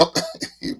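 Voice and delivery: brief high chuckle; light, soft laugh to himself; short laugh. Real, not acted. Laughs at his own remark.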